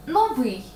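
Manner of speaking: новий with the last syllable stressed. Shown as a demonstration. Teacher shows where the stress falls. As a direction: lean on the И in новий. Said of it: "Наголос на «и»".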